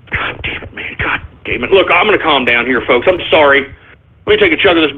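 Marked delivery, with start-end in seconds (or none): 0.1-1.7 exasperated. Real, not acted. Exasperated, muttering.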